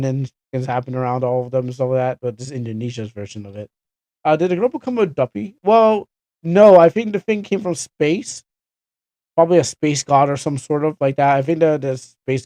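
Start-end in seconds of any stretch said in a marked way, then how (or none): 4.2-8.4 incredulous. Real, not acted. Puzzled guessing at the plot.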